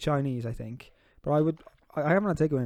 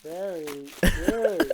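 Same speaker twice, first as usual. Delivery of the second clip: slow deadpan approval; much slower than usual. Acted. Dry repeated gift reaction.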